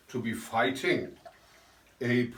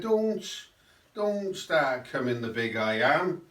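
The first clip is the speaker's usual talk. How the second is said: lightly mocked Cardiff accent; Putin. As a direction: give a warning in a put-on Cardiff accent. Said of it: "Again in the Cardiff accent".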